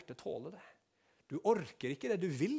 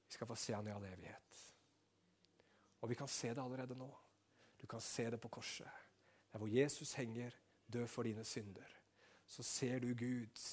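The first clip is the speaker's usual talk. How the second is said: much softer, intimate close; hushed preaching; 7 dB quieter than usual. Acted. Pastor closing the sermon softly to the congregation. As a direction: bring them in close, softly.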